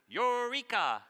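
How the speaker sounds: high, loud triumphant call; eureka cry. Shown as a demonstration. Scientist crying out a discovery to the class, high and loud. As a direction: announce a discovery. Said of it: "scientists like to say when they discover".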